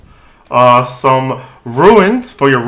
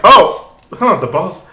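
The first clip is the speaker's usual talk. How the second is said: high guard voice; 6 semitones higher than usual. Acted.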